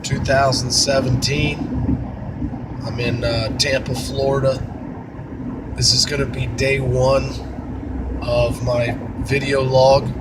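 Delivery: hoarse, sick voice; scratchy voice from a cold; raspy voice. Real, not acted. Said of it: "please excuse the, uh, raspy voice".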